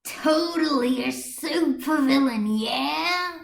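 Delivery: sway through it like a tipsy heckler; a mildly voiced drunk jeering; drunk taunting. Drunk civilian taunting Chat Noir.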